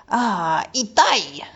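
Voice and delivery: pained cry of itai; pained moan. Acted. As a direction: whimper as she squeezes through. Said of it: "gémit-elle".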